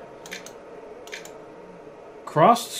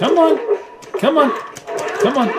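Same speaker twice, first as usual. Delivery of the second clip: a yelped come on, fading; frustrated urging; 10 semitones higher than usual. Real, not acted. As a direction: egg the fighter on, exasperated.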